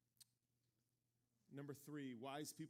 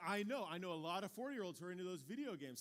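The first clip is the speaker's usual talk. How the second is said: loud, emphatic insistence; insistent reply; 2 semitones higher, 6 dB louder than usual. Retold or imitated. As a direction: brush off his excuse forcefully. Waitress insisting, retold.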